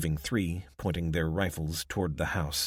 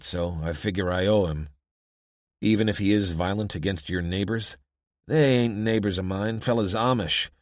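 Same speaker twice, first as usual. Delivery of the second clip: a lightly voiced wary local; weary small-town man, half-reluctant; rough townsman voice; 5 dB louder than usual. Townsman explains his loyalty.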